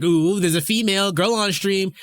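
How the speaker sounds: high, loud teasing squeal; mock excited chat. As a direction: ham up an eager chatter. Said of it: "You know how chat went".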